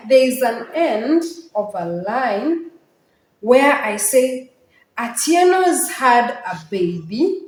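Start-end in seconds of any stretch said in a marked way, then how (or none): 5.0-7.4 put-on "Atieno's had a baby" left open, rising on "baby"; no final pause. Shown as a demonstration. Teacher quotes where the line ends, run-on delivery. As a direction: lift "baby" as if the line runs on. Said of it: "There's no pause there".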